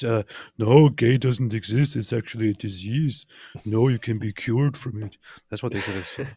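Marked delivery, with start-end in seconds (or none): 0.6-5.2 mock bigoted lecture.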